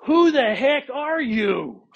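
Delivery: high, slow, loud startled cry; startled king. Shown as a demonstration. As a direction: blurt it out like a stunned king. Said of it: "You think that's what he's saying?".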